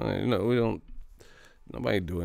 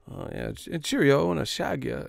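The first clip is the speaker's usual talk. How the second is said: mock British accent; 5 semitones higher than usual. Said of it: "We don't talk about".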